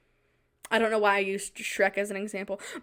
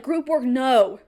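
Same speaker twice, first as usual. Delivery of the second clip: plain, firm no; Group work, no stated flatly; flat refusal; 4 dB louder, slower than usual. Retold or imitated. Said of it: "And I'm like".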